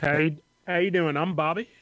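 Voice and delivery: lightly twanged country ranger introducing himself; mock small-town ranger, easygoing; white boy ranger. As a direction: play a folksy Southern patrolman. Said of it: "the voice that Kaz was doing".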